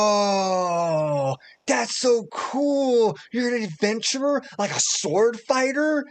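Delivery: high, loud, awed gasp and gush; excited kid. Acted. Shy boy meeting an adventurer, high and thrilled. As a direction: gush like a starstruck little boy.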